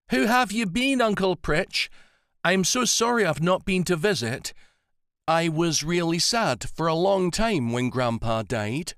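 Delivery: near tears, saying sorry to her uncle; tearful apology. A narrator's reading. Melanie emotional apology.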